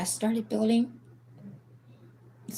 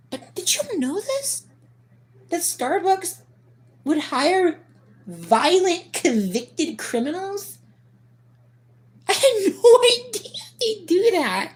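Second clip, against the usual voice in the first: incredulous; 10 semitones higher, 4 dB louder, slower than usual. Real, not acted. Gossipy aside, high voice.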